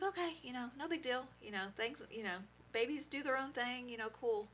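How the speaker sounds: high, breezy brush-off; forced breezy calm. Retold or imitated. Brushing off worry.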